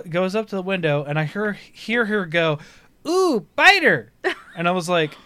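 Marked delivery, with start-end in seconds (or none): 3.1-4.1 put-on high, slow, cooing little-kid voice; delighted baby squeal at the bug; high babyish coo; toddler voice. Toddler voiced while eating spider.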